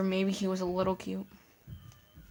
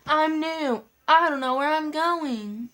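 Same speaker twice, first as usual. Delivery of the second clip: sarcastic repeat; 7 semitones higher, 4 dB louder, slower than usual. Retold or imitated. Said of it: "that's literally exactly what he said".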